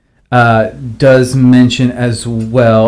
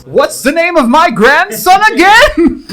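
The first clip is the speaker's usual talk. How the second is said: put-on old person voice. Joking forgetful grandparent voice.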